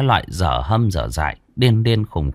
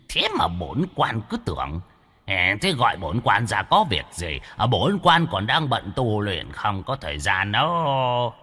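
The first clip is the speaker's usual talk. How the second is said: put-on pompous old ghost; 5 dB quieter than usual. Ghost claiming he is busy cultivating, soft and pompous. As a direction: brush them off grandly.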